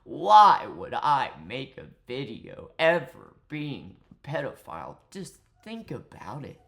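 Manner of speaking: exaggerated swoops that drop to a hush; mock seductive. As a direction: imitate his smarmy seductive shtick. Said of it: "talking like this all seductively".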